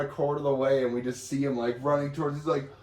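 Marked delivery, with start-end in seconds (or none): none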